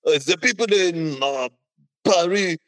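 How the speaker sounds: mocking Quebecer. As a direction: make fun of the Parisians as a smug Quebecer, up high and slow. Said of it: "the Quebecians are like".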